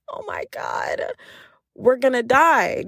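hushed, slow doom panic; mock certain we're doomed; panicked. Panicking in the dark.

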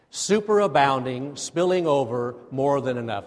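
leading a congregation in reciting; out loud. Shown as a demonstration. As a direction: say it out loud for all to join. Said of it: "Say that out loud with me".

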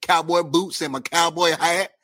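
put-on country accent, climbing at the end; playful country accent. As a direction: lay on a country accent, stretching the last words. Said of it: "I don't like your country accent".

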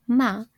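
"ma" held level, Mandarin first tone; flat tone. Shown as a demonstration. Podcaster demonstrating mother in Mandarin, "ma" in flat tone. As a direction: keep "ma" on one even pitch. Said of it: "with a flat tone".

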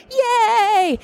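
tearful, high cheer on Yay; teary joy. Real, not acted. Fan recounting meeting David Tennant, tearful high cheer. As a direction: cheer through happy tears.

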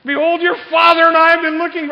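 very loud, high Jewish mother's complaint; Mary's Jewish accent. Acted. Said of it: "in her best Jewish accent".

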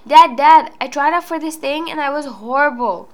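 loud calling out to dad, then settling; child calling dad. Retold or imitated. Kid calls to her dad after school, loudly. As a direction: call out to dad like an eager kid.

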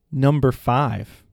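slow, loud, teasing; spring the trick on dad; sly drawn-out challenge. Retold or imitated. Son playfully tricking his dad with a number. Son's joke, said slowly.

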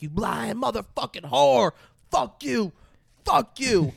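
high-pitched, loud crowd jeer; mock heckling. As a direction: hurl it like an outraged courtroom heckler. Acting hecklers booing the witness.

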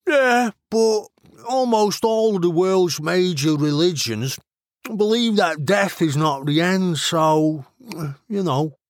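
offhand Mancunian reasoning while munching; mouth full of crisps. A narrator's reading. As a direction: talk casually through a mouthful. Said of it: "nodded with a mouthful of crisps".

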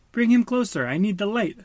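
loud, high urgent reply. A narrator's reading. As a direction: call back urgently. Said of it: "Dory answered".

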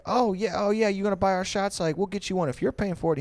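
high, bubbly imitation of young women; girly voice. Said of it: "And they would be like".

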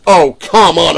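retold protest.

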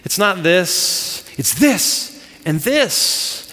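acted strict instructor, slow on the corrections; imitating a demanding teacher; hard on him. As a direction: drill the move firmly, drawn out. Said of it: "he's hard on him".

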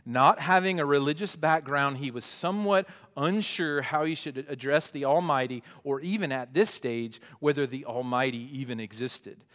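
loud, animated story reading; reading aloud. Acted. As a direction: read it out with punchy emphasis. Reads book passage aloud.

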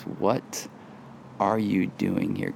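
soft, hushed What are you doing here; whisper. Shown as a demonstration. Pastor voices God's question to Elijah in a soft hush. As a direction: breathe the question gently. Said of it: "And he whispers".

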